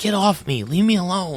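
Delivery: put-on small, high, young-sounding voice. Telling of something coming down the stairs, the speaker voices a young, small voice. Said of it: "the noise of what sounds like a young, small voice".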